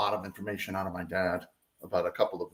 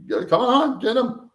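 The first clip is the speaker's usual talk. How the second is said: high, urgent retold shout; urgent yell; 12 semitones higher, 4 dB louder than usual. Out-of-breath mother urging her son to get his brother, urgent yell. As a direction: order him to grab his brother, mildly raised. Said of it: "she screamed down to me".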